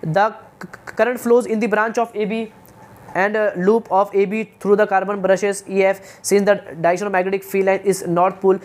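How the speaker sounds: slow, halting textbook reading; reading aloud. Acted. Teacher reading a circuit description from the book, slow read-aloud. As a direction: read it out word by word, slowly.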